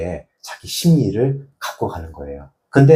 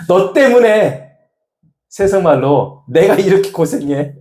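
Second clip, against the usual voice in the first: venting shout; 8 semitones higher, 3 dB louder than usual. Shown as a demonstration. Counselor demonstrating screaming into a blanket, laughing mock yell. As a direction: belt it out half-laughing, letting off steam. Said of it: "냅다 소리를 지르세요".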